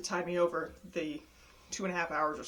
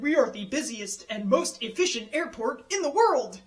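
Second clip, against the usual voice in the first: announcement voice; 4 semitones higher, 5 dB louder than usual. Retold or imitated. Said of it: "pre-recorded announcements ... said".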